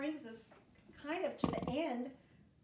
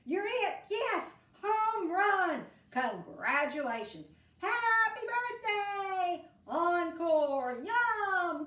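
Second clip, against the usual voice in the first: a string of louder, higher cheerful shouts; excited exclamations; 6 semitones higher, 6 dB louder, much slower than usual. Acted. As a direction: burst out each one with glee. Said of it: "show excitement".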